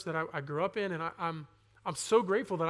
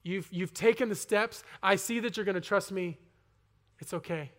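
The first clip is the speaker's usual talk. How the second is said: God's whisper. Retold or imitated. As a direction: hush it like a gentle whisper in the ear. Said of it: "God is gonna whisper into my ear".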